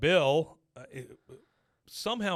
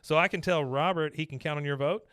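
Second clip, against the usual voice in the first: put-on girlish gushing voice; 3 semitones higher than usual. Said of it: "she says".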